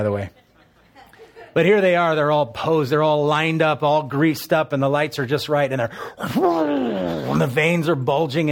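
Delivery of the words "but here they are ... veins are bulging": louder, higher hyped-up emcee; mock announcer hype. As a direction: sell the pose-down like a ring announcer. Hyping bodybuilder pose-down.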